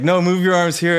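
hammed-up eager voice; pushy hug coach. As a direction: imitate the eager guy insisting. Voicing the man demanding hugs.

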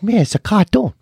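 imitating an exasperated rant. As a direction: build up the disbelief line by line. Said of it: "And he goes".

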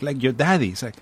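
ordinary talk

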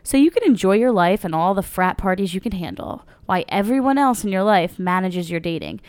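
upbeat sponsor read voice. Acted. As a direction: read it like a podcast ad. Ad read continued.

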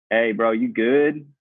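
slow, casual check-in; barely care as you ask; imitated unbothered. Retelling the driver who hit him, unbothered imitation. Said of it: "couldn't look less bothered".

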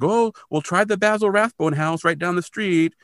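lightly voiced agent brushing off the couple; breezy real estate agent.

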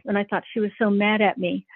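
ordinary talk

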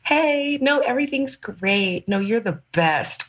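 high, drawn-out cushioning voice; mock reassurance. Imitating everyone cushioning someone who is dying, high mock-cheery reassurance. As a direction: imitate people soothing with high, slow false cheer. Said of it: "everybody can see that you're dying ... everybody's like".

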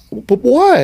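high-pitched, wounded mock plea; retold pleading. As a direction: imitate a hurt man begging for a reason. Crushed man pleads after rejection.

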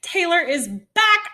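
high, loud, slow squeal of joy; high loud fangirl squeal; thrilled gasp. Retold or imitated. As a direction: gush like a fan who just saw her idol. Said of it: "I was like".

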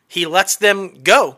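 slow, drawn-out reveal; slow emphatic reveal. Real, not acted. Building up to the twist for listeners, slow reveal. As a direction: linger on every word. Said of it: "the whole shocking twist".

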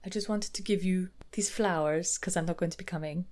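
softly spoken fake Russian accent; attempted Russian accent. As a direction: try a Russian accent, badly. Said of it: "oh, what's Russian?".

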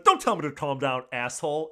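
loud mock snapping back; imitating Drama's outburst. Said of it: "Drama's freaking out".

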